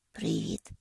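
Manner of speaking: Привіт! whispered, barely voiced; a shy near-whisper of Привіт!; quiet hello. A narrator's reading. Noah greets Penny shyly, in a soft whisper. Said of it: "тихо каже він".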